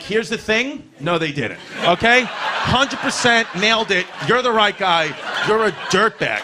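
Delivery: high, loud shouted verdict; calling him out. Retold or imitated. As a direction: yell it at him, no doubt. Telling off criminal father.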